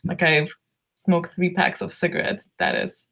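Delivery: hoarse, lost voice. Real, not acted. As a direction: speak through a worn-out hoarse voice. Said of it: "I've lost my voice".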